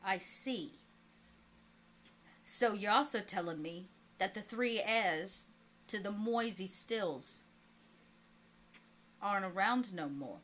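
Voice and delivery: lightly voiced mob boss on the phone; a hint of an old-time gangster; Capone. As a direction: play a gangster boss taking a call. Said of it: "And the voice of Capone comes on".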